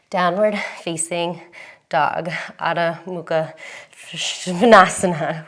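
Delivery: panting through the pose names; breathless yoga cueing; out of breath. Real, not acted. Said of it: "I'm panting".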